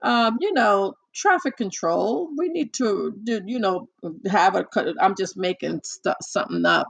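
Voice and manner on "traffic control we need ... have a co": calm pilot voice. Retold or imitated. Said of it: "I'm just letting you know how he sounds".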